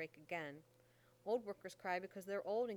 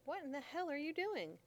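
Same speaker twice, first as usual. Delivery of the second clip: angry demand; 7 semitones higher, 3 dB louder than usual. Acted. Mammy scolding John.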